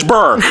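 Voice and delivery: mock Bear slurred down to BRR; dad's clipped pronunciation. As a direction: mimic dad squashing Bear into BRR. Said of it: "and then he says".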